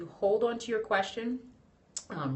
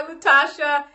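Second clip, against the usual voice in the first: bright squeaky greeting, much higher; high-pitched voice; 7 semitones higher, 13 dB louder than usual. Real, not acted. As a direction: greet her in a high chirp. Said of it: "See how high, high-pitched my voice".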